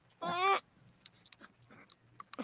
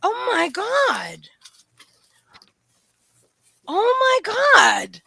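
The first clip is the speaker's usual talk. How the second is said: drawn-out, awed "oh my God"; gasp, then stretch it out, rising higher and louder; amazed gasp; 5 semitones higher, 6 dB louder, much slower than usual. Real, not acted. Unboxer reacts to the dog's new toy, amazed.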